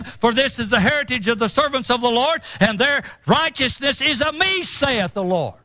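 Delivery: rising, confident declaration of faith; faith confession. Pretend. Preacher declaring God's promises to the congregation, boldly confident. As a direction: proclaim God's faithfulness with conviction. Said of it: "it speaketh like this".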